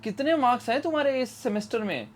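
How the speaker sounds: a hint of a curious auntie asking about marks; nosy aunt. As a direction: ask like a nosy aunty at a family visit. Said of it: "aunty बनता हूँ".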